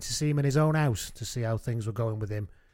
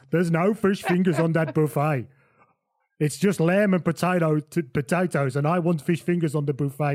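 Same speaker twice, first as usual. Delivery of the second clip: put-on corrected foreign accent, higher and insistent; Johan; 3 semitones higher, 4 dB louder than usual. Johan complains about the buffet, insistent put-on accent. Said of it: "get the accent right".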